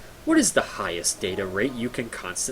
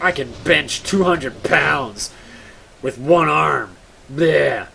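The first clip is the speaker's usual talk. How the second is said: slow, louder macho boast; bragging gym guy; 3 semitones higher, 5 dB louder, slower than usual. Retold or imitated. Mocking a friend bragging about bench press, slow and loud. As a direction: puff up like a gym bro showing off. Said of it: "man mode talk".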